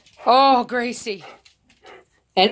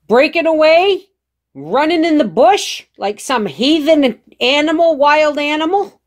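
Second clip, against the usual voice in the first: heated family shouting; 4 semitones higher, 4 dB louder than usual. Real, not acted. Scolding dog, raised voice.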